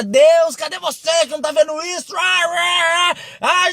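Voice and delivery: a king howls at God after losing his toe; furious pained yell. Retold or imitated.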